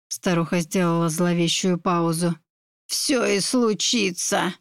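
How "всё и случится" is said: put-on slow, creaky old witch foretelling; sinister witch prophecy. A narrator's reading. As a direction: draw out the curse slowly and ominously.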